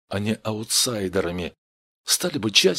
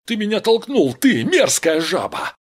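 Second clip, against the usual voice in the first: high, loud accusing shout; angry yell; 8 semitones higher, 6 dB louder than usual. A narrator's reading. Gang member to the one who pushed him, yelling. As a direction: yell the insult at the one behind. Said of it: "заорал один из них".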